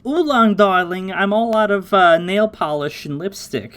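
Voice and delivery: high-pitched mock sweet-talking girl; pampered darling. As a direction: wheedle like a spoiled sweetheart. Voicing a demanding kept girl.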